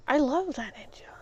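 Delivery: unvoiced whisper, hugging the words close; whispered aside. To herself about her beloved blender, whispered. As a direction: whisper it like a secret love.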